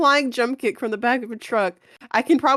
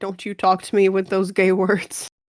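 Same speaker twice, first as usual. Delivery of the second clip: ordinary talk, nothing marked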